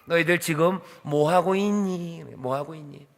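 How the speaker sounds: 어린아이에게 묻듯 낮고 느리게, 살살; 부드럽게. Shown as a demonstration. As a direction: soften right down into a slow, gentle question. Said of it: "부드럽게 물어볼게요". (부드럽고 나긋하게)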